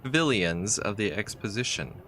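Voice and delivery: reading the game's story text aloud, evenly; story narration. A narrator's reading. Player reading the adventure's story, steady narrator voice. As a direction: tell it like a travel tale.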